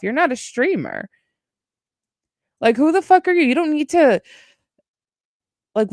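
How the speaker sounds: exasperated inner rant. Retold or imitated.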